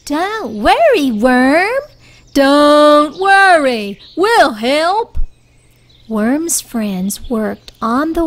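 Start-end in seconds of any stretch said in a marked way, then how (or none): 0.1-1.8 reassuring friend. Acted. Friend comforting Worm. 2.3-5.2 slow, louder, higher reassurance; a big friend promising help; reassuring big friend. Acted. Big friend comforting Worm.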